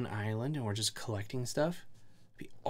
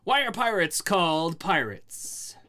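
pirate voice; 3 semitones higher than usual. Acted. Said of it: "It's my pirate voice".

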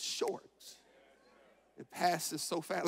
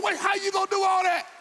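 a hint of a questioning God, quick; 14 semitones higher, 9 dB louder, faster than usual. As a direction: ask it fast as God, half amused. God voiced questioning plans.

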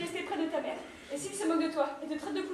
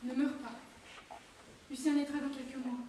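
quiet plea; 6 semitones lower, 11 dB quieter than usual. Acted. Wife's farewell to departing soldier.

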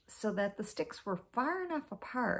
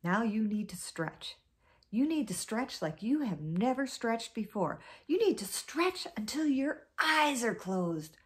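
rising, coaxing push; building urging; 3 semitones higher than usual. Acted. Anansi urging Snake to stretch harder, building up. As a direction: egg him on more each time. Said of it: "And then Anansi said".

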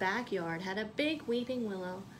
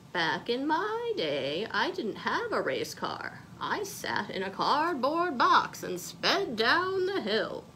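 a touch louder, lightly voiced grandma; grandma's advice; 3 semitones higher, 4 dB louder, slower than usual. Grandma telling Molly about the olden days, lightly voiced. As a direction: tell it like a fond grandma remembering. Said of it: "Her grandma had told her".

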